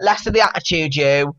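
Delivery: mock bossy scolding; imitated telling-off. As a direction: put someone in their place, mimicking. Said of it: "even the way that she kinda".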